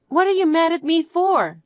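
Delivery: high, defensive protest; why are you mad at me; indignant surprise. Acted. Partner protests the anger, indignantly surprised.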